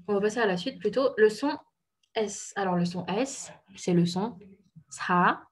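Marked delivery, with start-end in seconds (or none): 4.9-5.4 "sa" with a soft s and a puff of breath; soft aspirated S. Shown as a demonstration. Teacher presenting the Korean S, soft aspirated demo. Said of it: "douce, expirée".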